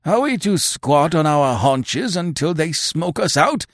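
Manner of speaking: fearful hillmen pleading against waiting; anxious, rising protest to their chief; alarmed protest. A narrator's reading. The men protest in fear.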